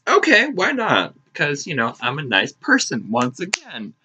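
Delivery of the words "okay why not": high, sing-out fake willingness; outward agreeableness. Agreeing to stand in line despite inner protest, fake agreeableness. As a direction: chirp a polite yes you don't mean.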